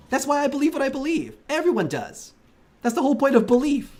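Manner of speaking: heated rant. Real, not acted. Streamer arguing with a chat viewer, heated rant. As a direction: push back hard, voice climbing.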